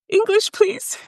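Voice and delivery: high, tight "English, please"; nervous request. Retold or imitated. Telling the officer her language choice, nervously. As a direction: ask timidly, voice way up.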